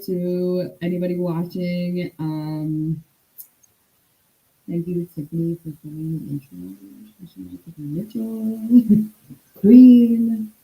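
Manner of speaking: hollow, echoey mic sound; inside a well. Real, not acted. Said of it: "you sound like you're in a well".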